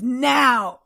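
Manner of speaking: mock holler without full volume; a half-voiced yell, retold; mild retold scream. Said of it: "all I hear him was screaming".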